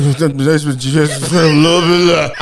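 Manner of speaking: slow, dazed line; slow stunned words. Retold or imitated. Recapping the hero, slow and stunned. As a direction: say it slowly in shock. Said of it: "He was like".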